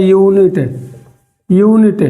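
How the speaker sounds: यूनिट said with an initial y-glide, "yoo-nit"; pronunciation demo. Shown as a demonstration. Teacher showing students how यूनिट is pronounced, clear pronunciation demo. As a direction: say यूनिट starting on a consonant y sound. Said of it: "इसका उच्चारण करेंगे तो इस तरह होता है".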